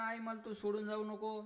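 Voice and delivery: put-on child begging mother to stay; child pleading. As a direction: beg like a little boy to his mother. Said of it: "जसं लहानपणी म्हणतं ना".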